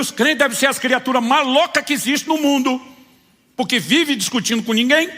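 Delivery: laughing. Real, not acted. Laughing remark about believers.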